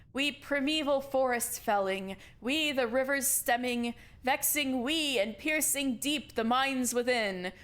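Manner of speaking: slow, grand reading of a stirring poem; poem recitation. Acted. Leader reading a rousing poem to the kids, solemn declamation. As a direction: declaim it like an anthem to the colony. Reads poem from his holopalm.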